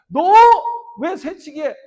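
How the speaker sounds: retold child's challenge. Child confronting a line-cutter.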